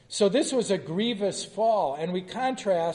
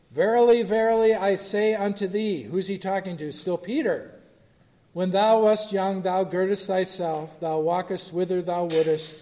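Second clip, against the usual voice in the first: louder, solemn King James reading; scripture reading; 4 dB louder than usual. Acted. Teacher reading verse eighteen to the class, solemn reading. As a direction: proclaim the verse with weight.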